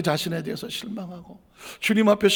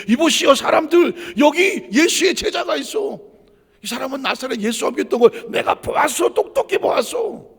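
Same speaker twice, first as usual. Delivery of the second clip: accusing shout; 6 semitones higher, 10 dB louder than usual. Retold or imitated. Servant girl yelling to the crowd that Peter was with Jesus. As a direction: call everyone over to point him out.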